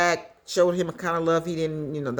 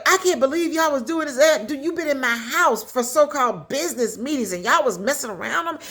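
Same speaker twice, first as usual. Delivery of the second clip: higher, mildly indignant retold complaint; imitating outrage at a raised pitch; mad wife; 6 semitones higher than usual. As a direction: act out an aggrieved wife confronting cheaters. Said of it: "She's mad".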